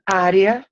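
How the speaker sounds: área hit loud and high on the first A; Á-rea, accent firmly up front; stressed first syllable. Shown as a demonstration. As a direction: punch the opening A of área. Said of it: "mira el acento".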